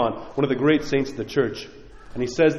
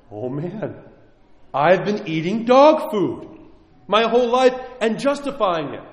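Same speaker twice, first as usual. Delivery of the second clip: amazed realization; 5 semitones higher than usual. Retold or imitated. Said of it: "and you go".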